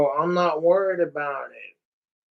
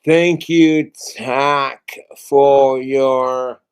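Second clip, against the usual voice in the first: loud thanks; 3 semitones lower, 7 dB louder, much slower than usual. Real, not acted. Thanking donor on stream.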